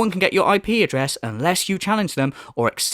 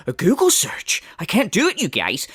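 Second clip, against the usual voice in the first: a mocking whisper. Mocking the streamer's excuse in a whisper. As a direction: breathe it like a whiny excuse.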